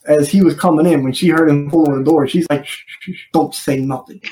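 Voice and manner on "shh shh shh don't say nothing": whispered shushing, barely voiced; a sharp whispered hush to keep the droid quiet. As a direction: hush him urgently under your breath. Hushing the droid before he speaks.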